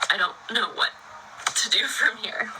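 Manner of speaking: helpless laughing whisper. Real, not acted. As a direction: laugh it away under your breath.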